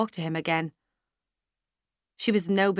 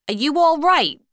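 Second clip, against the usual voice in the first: a higher, louder concerned waiter; voiced waiter; 8 semitones higher, 7 dB louder than usual. A narrator's reading. Waiter checking on a tearful customer, concerned. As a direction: lean in, checking on her. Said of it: "asked a waiter".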